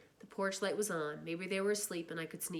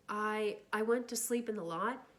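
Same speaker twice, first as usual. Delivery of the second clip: stammering; 3 semitones higher than usual. Acted. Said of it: "when I stammered".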